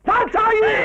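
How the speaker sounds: high, drawn-out name call. Acted. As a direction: holler her name. Husband calls out wife's name. (உரக்க பெயர் சொல்லி அழைப்பு)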